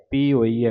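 ਪੀ ਹੋਈਐ run together as one word; joined pronunciation. Shown as a demonstration. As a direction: read ਪੀ ਹੋਈਐ joined, no break. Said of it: "ਇਕੱਠਾ ਹੀ ਪਾਠ ਉਚਾਰਨ ਕਰਨਾ ਹੈ".

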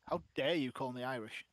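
hammed-up offended outburst; fake outrage. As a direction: ham up being insulted, loud. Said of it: "I love to fake being insulted".

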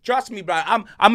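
loud, high taunting yells at the rival fan; mocking shout. Real, not acted. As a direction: gloat at the top of your lungs, chanting down down.

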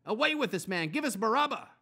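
high, loud crowd shout. Acted. Crowd shouting at Pilate for Barabbas, loud and high. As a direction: roar it as the whole mob. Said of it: "with one voice they shouted".

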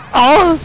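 high, loud "aah"; loud cry. Real, not acted. Gamer pestered in game, sudden loud cry.

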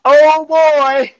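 high, drawn-out exclamation; effortful exclamation. Real, not acted. Instructor in the last ten seconds, effortful exclamation. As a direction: exclaim it high under strain.

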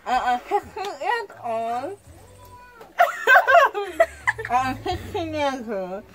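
laughing through a tongue-out mumble; garbled words with tongue out; tongue sticking out. Pretend. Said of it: "talk with your tongue sticking out".

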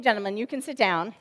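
ordinary delivery

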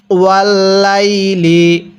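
ওয়াল্লাইলি drawn out slowly; slow recitation. Shown as a demonstration. Teacher models the word for students, slowly. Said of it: "আমার সাথে পড়ুন".

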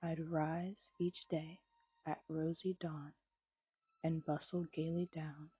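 measured, gentle poetry recital; poem reading. A narrator's reading. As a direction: read the verses unhurried, savoring each line. Reads Dorothy Parker poem aloud.

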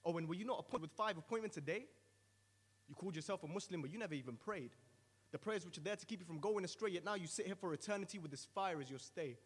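a mild threatening tone, mostly spoken; threatening roar. Acted. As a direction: list the sins with steady menace. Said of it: "responds with a threatening roar".

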